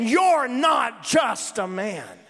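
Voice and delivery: slow, emphatic preacher voicing a spirit; spirit's recognition. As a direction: draw each word out in forceful realization. Acts the spirit recognising Jesus.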